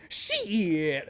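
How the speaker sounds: a startled laughing "Shit!"; laughing curse. Retold or imitated. Narrator caught off guard, laughing curse. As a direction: blurt it out through a laugh.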